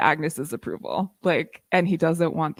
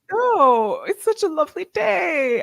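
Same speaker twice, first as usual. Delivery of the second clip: high, sing-song innocent voice; breezy, fake-casual high tone; mock innocent Harry; 12 semitones higher, 3 dB louder than usual. Co-host mimics Harry sneaking away, high and sing-song.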